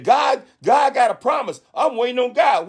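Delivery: high, slow, shouted declaration; mad shouting. Retold or imitated. Young woman shouting she's waiting on God, high slow shout. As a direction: belt it out like she's fed up. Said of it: "She was mad".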